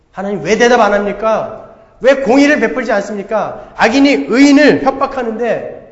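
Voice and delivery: 하나님께 따지듯 크게 외치기; 억울함을 쏟아내며 점점 소리 높이기; 항의하는 하박국. Acted. 하박국의 항의를 다시 연기. (하나님께 대드는 하박국의 외침)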